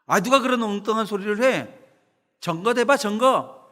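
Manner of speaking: retold yell in thick Gyeongsang dialect; angry Gyeongsang shout. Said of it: "그래서 소리를 칩니다". (화가 나서 경상도 사투리로 버럭 외치기)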